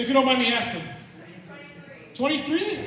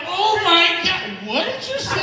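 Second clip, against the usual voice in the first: high, loud, slow anguished cry; pained exclamation; 7 semitones higher, 6 dB louder, slower than usual. Retold or imitated. Comic mimicking someone in so much pain, high loud cry. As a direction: stretch it out in agony.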